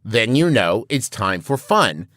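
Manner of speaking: deliberate, measured rhyme with a drawn-out last line; mock mnemonic rhyme. Podcaster making up a coyote safety mnemonic, mock rhyme recital.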